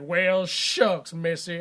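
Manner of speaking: mock Southern drawl; aw-shucks country boy in a Southern accent. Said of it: "where the fuck did this accent come from".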